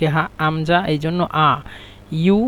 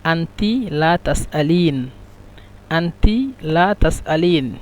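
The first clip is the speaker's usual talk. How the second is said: slow demo; slower than usual. Shown as a demonstration. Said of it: "শুদ্ধ ভাষা মহিলাদের জন্য এটা হলো".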